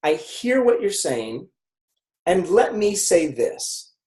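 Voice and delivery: slow, calm and even; slow steady empathy line. Shown as a demonstration. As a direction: say it like you truly listen. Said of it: "so I say".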